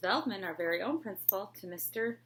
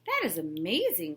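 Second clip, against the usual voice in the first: louder, thrilled; excited cry; 5 dB louder than usual. Acted. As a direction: burst out in delight. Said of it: "cried Mister Bundy".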